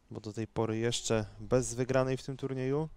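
usual speaking voice

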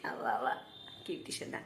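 soft, near-whispered pet talk; cooing. Real, not acted. Mother coos at daughter. (মেয়েকে ফিসফিস করে আদর)

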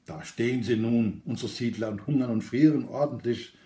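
a light mocking jab, barely voiced; needling. Inner critic Zweifel mocks the settlers, lightly needling. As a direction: tease him gently about the hungry settlers. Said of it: "stichelte Gefährte Zweifel".

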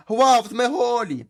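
high, loud and very slow wail; crying out. Acted. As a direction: drag out a desperate cry for help. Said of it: "а там знов кричать". (протяжний гучний високий крик)

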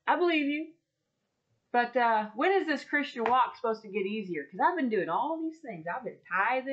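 a lightly acted, exasperated prayer; complaining to God. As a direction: mom venting her frustration to God. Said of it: "I'm just like".

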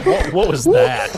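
high, slow stunned shout; yelling at a horse race. Real, not acted. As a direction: shriek in disbelief. Stunned after the catch.

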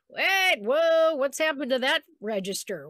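playfully startled, starting high; mock alarm. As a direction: act out a sudden mild panic. Acts sudden discovery of lost voice.

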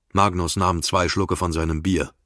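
plain reading voice

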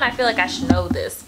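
ordinary talk

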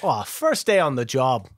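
bad, sarcastic New York accent; a thick New York guy, badly done. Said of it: "That was a bad New York accent".

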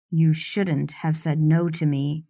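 clenched voice. Acted. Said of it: "I hear his clenched voice".

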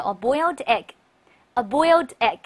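a boiled egg said slowly twice; slow model reading. Shown as a demonstration. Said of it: "来一块儿读一下". (慢速示范a boiled egg)

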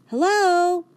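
bright high greeting from the dog. A narrator's reading. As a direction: Rosie greets the dog in the bowl, high and loud. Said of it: "says Rosie".

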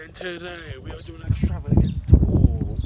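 loud vlog intro. Real, not acted. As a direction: announce it big and loud.

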